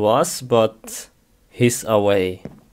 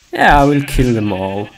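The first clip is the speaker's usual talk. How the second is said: mock angry; 6 dB louder, faster than usual. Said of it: "I'm getting angry now".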